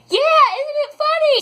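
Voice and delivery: high, loud, mock-cheerful sarcasm; sarcastic retort. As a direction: fake sweetness hiding irritation. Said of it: "And I'm like".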